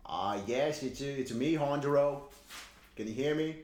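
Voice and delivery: lightly voiced Kennedy; hint of a Boston politician; JFK voice. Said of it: "John Fitzgerald Kennedy calling in".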